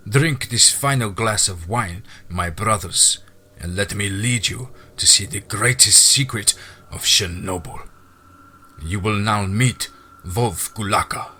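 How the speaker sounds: a measured, ceremonious address to the brothers; lodge master. Acted. Voices the lodge master's toast.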